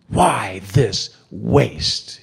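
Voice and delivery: slow, drawn-out scornful protest; Judas's protest. Retold or imitated. Judas scoffing at the wasted perfume, slow and scornful. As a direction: drag out the complaint in disgust. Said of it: "he would say".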